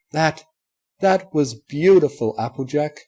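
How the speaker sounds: moved almost to tears; tearful praise; choked-up admiration. A narrator's reading.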